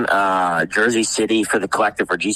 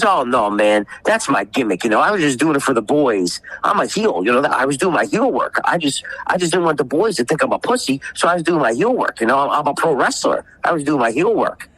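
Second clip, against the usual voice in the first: mock excuse; 6 semitones higher than usual. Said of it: "He says".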